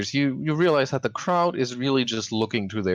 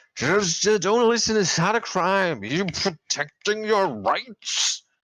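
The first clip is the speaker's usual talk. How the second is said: put-on pitched way up, drunkenly slurred words; 10 semitones higher than usual. Describing a drunk man yelling at the crowd, acting out his words: imitating drunk slurring. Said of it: "he slurs his words".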